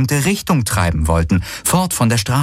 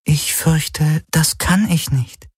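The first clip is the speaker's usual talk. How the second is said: higher, slow artificial companion voice; Schattenhelix; 7 semitones higher, much slower than usual. Acted. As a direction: refuse slowly in a higher, level voice. (höhere, langsame Helix-Stimme)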